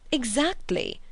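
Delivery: eager high exclamation; excited. A narrator's reading. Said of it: "said Sir Harry excitedly".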